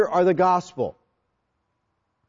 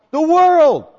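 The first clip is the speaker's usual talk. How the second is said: high, loud, appalled repeat of the world; shocked echo; 9 semitones higher, 7 dB louder than usual. Retold or imitated. Nicodemus hearing God loves the world, stunned disbelief. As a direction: spit the world back in disbelief.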